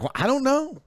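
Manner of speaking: wife baffled by the mess, helpless; mock wife shrug. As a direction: imitate her baffled reply. Acted quarrel with Nora.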